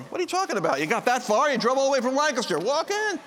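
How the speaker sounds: high, rapid exasperated urging; incredulous urging. Retold or imitated. Host to friend frozen at the door, incredulous urging.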